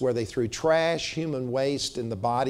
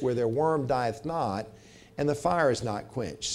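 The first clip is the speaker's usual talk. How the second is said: measured, solemn reading of the verses; scripture reading. Acted. Preacher reading the Bible verses to the congregation, solemn. Rereads scripture, second passage.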